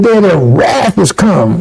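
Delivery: slow, tearful, voice breaking; choking up for real on the words; real tears. Real, not acted. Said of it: "I'm getting a little emotional".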